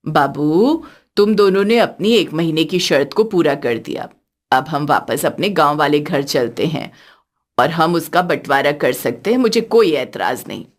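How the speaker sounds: put-on a gentle older woman speaking from the heart; elderly mother-in-law.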